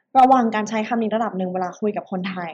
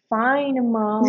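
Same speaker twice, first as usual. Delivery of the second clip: bored fine. Retold or imitated. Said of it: "ตอบเสียงเซ็งๆ".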